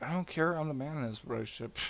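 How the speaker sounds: mock macho brush-off; lightly acted domineering husband. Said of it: "And he's like".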